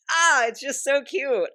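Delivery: high, loud, slow squeal; excited squeal. Real, not acted. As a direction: melt over something adorable. Gushing over cute fan art.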